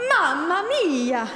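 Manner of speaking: loud, slow, stretched-out exclamation; astonished. Acted. Susanna reacting to Marcellina being Figaro's mother, loud and astonished. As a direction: draw it out in amazement.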